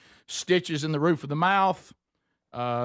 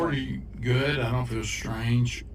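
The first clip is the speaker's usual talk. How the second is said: slurred, just out of surgery; groggy from anesthesia; 3 semitones lower than usual. Real, not acted. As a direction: talk thick and sleepy after anesthesia. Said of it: "I'm talking funny".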